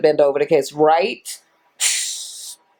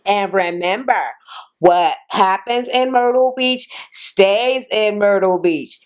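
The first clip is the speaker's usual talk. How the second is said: mock a corny scripted line, lightly exaggerated; corny delivery. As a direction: hammily quote a cheesy catchphrase. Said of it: "very cornerly said".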